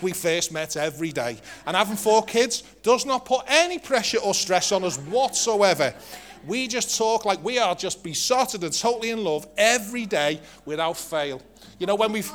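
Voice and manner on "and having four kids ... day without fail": dry sarcasm. Acted. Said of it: "the English sarcasm here".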